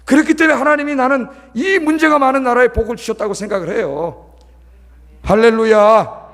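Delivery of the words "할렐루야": loud, slow, stretched out hallelujah; drawn-out hallelujah call. Real, not acted. Pastor rousing the congregation with a long, loud hallelujah.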